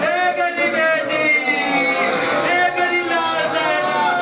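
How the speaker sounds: slow, drawn-out grieving calls to his daughter; wailing lament. Acted. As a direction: stretch each cry to Zainab like a sob. Ali wailing calls to Zainab.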